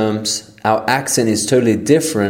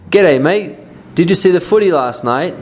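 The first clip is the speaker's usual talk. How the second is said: hearty Aussie greeting; 7 semitones higher than usual. Acted. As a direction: sing out a big g'day. Acted Aussie dialogue example.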